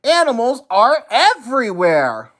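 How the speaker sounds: very high panicked plea; panicked Oscar. A narrator's reading. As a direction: cry out in despair. Oscar pleads to wise man.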